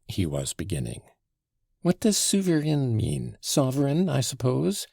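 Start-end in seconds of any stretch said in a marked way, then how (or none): 1.8-4.9 higher, questioning interruption; interrupting query. A narrator's reading. Grushenka interrupting the Pole, querying. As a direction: cut in with a raised, querying tone. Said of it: "interrupted Grushenka".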